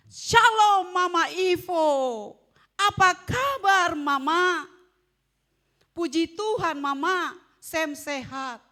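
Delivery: put-on loud, slow, bright child greeting; cheerful child. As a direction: play the happy child greeting Mama. (anak ceria menyapa Mama dengan keras dan pelan)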